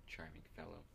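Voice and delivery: low-voiced aside. Player repeats a whispered remark to game master, softly voiced. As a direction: voice it quietly, short of whispering. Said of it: "I, I whispered".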